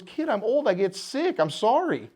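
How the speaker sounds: a hint of a frail old landlord saying sorry; imitating old man. Old landlord quoted apologizing.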